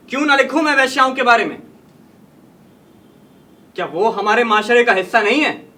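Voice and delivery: impassioned, indignant rhetorical questions; indignant challenge. Acted. Writer answering critics who question his stories, indignant. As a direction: protest with rising indignation.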